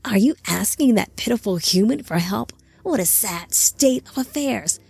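a hint of a mocking monster; mild sneering taunt; lightly voiced taunting creature. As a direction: scoff at him lightly. Temuro mocks Anami.

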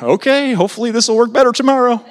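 high, fast, laughing resignation. Retold or imitated. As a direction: shrug it off with a laugh. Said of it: "It's like".

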